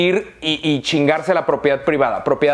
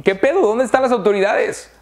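high, incredulous mock protest; mock outrage; 6 semitones higher than usual. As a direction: play the shocked crowd. Mocking outraged bystanders. (indignación burlona, aguda)

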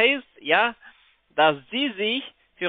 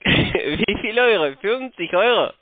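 laughing; 4 semitones higher than usual. Real, not acted. Scammer laughs at the sum.

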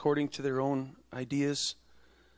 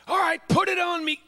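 mock reluctant sigh-voice; 13 semitones higher, 5 dB louder than usual. Mocking a grudging believer.

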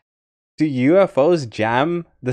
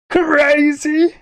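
loud high question; 5 dB louder than usual. Pretend. Repeating "crazy" louder.

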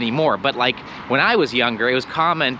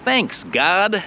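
matey thanks to God; 4 semitones higher, much slower than usual. Shown as a demonstration. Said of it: "it sounds like you're saying".

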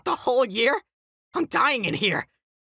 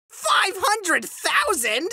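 stunned disbelief; 6 semitones higher, much slower than usual. Acted. Shocked at follower count.

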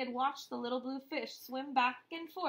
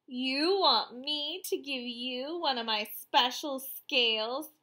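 loud, outraged, pitch climbing; indignant cry; 2 semitones higher, 7 dB louder than usual. Acted. Rainbow Fish snapping at the little fish who asks for a scale. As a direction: throw it back at him in offence. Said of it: "cried Rainbow Fish".

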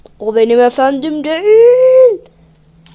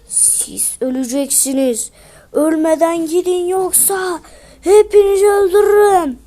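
threatening golem; 2 semitones higher than usual. Acted. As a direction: warn them off as the golem.

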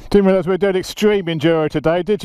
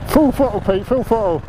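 calling out; 7 semitones higher than usual. Real, not acted. Urging mate up the climb.

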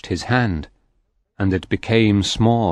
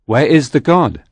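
higher, louder demand; soul demanding of the priest; demanding question; 6 semitones higher, 6 dB louder than usual. A narrator's reading. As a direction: press the priest hard. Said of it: "I said to the priest".

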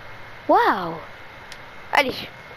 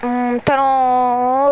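drawn-out ASMR; 3 dB louder, much slower than usual. Pretend. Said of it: "mon talent de A S M R".

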